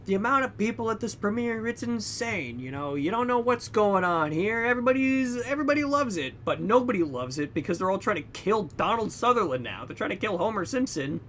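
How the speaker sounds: mock news reporter. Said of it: "reporting about the premiere".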